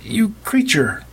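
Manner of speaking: high, slow outraged shout. A narrator's reading. Girl shouting at the vampire preacher. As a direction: hurl it at the vampire. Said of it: "Meg shouted".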